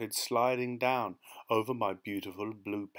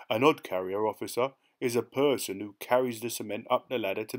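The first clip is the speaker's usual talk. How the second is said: lightly voiced working man, dropping aitches; rat-faced passenger; 4 dB louder than usual. Passenger explaining his job to the officer, lightly voiced, dropped aitches. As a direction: explain the trade chattily, a bit louder.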